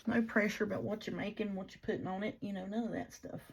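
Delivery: hiccupping mid-sentence; hiccups. Real, not acted. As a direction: speak while fighting hiccups. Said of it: "apparently I've got the hiccups good now".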